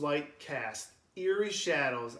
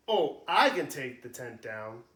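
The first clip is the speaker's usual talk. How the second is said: eager; 4 dB louder than usual. Acted. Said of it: "says Jason, eagerly".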